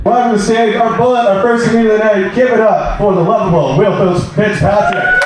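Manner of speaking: projected stage introduction; comedy club announcer. Real, not acted. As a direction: bring on the next act to applause.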